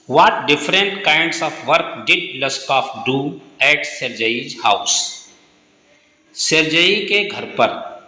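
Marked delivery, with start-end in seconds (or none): 0.1-5.0 slow dictation. Shown as a demonstration. Teacher reads question slowly.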